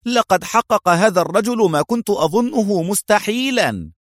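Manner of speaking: high-pitched, awestruck cry; admiring exclamation. A narrator's reading. French inspector watches the plane land, crying out in admiration. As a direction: exclaim in delighted amazement, voice way up. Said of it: "وصاح بإعجاب".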